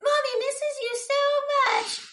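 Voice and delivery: high, slow put-on mother voice; mock mommy voice. Quoting Mary comforting ghost child.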